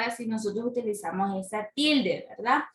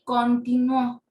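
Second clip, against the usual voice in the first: continuó with a strong, drawn ending; con-ti-NUÓ, slow, force at the end; stress on final Ó; 4 dB louder, slower than usual. Shown as a demonstration. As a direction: hit the last syllable of continuó. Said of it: "aquí tenemos lo que es la tilde".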